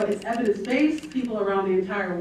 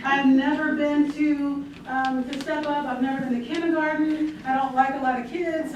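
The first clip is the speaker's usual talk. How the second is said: put-on toddler; 2 semitones higher than usual. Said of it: "I am a toddler".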